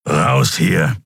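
low-key growly creature; growled order. A narrator's reading. Keru urging his friends out, growled. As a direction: growl a short order to leave. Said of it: "knurrte Keru".

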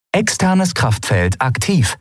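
ship computer. Acted. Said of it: "meldete die Sternenreiter".

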